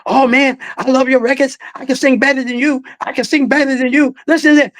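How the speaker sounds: imitating Ali as an eager boy; like a little kid. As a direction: gush like an excited child. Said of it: "He was like a little kid".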